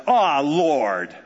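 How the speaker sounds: heavy, groaning "Ah, Lord" with a long sighing Ah; weary sigh. Shown as a demonstration. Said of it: "That's how he said it".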